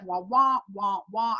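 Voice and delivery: wordless wah-wah of someone talking; imitated garbled speech. Overwhelmed listener hearing only noise from her friend, imitated wah-wah. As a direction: mimic speech that is just noise to you. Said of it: "couldn't even hear what she was saying".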